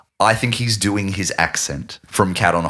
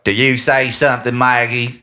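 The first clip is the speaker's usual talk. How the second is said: imitating Jack's stage accent. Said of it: "And he's like".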